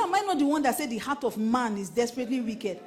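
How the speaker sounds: playfully scold, voicing an indignant God; animated imitation of God telling someone off; God's mock rebuke. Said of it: "He said".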